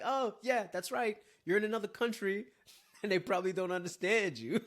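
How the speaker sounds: high, loud, laughing through the words; laughing realization. Retold or imitated. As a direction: chuckle at your own dumb realization. Sarcastic realization while drowning, laughing.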